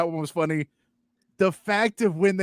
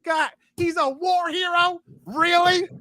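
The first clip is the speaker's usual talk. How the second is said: exasperated disbelief; 13 semitones higher than usual. Retold or imitated. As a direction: roll your eyes at the plot twist. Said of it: "And you're like".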